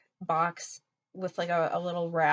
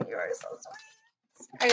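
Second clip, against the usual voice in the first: very high, drawn-out squeak; touched gushing; slower than usual. Real, not acted. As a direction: gush thanks in a tiny high voice. Gushing over the gift letter.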